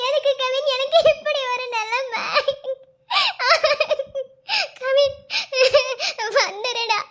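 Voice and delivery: tearful, broken lament; weeping lament. Acted. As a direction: sob and laugh through despair. Pregnant girlfriend weeping, lamenting.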